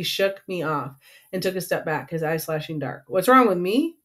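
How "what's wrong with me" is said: higher, louder indignant question; raised voice. A narrator's reading. Miles rounding on Lee, voice raised in indignation. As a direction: throw the question back, voice lifted and rising. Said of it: "he asked, his voice raised".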